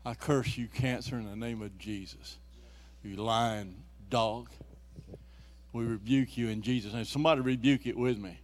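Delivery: loud rebuking the disease; laying a curse. Real, not acted. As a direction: rebuke it like a preacher. Cursing the disease.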